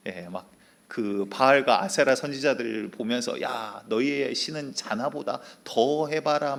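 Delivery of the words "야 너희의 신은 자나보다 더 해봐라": slow, teasing jeer; mock the rivals' sleeping god; a prophet taunting, drawn out. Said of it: "막 이러면서 굉장히 놀리시거든요".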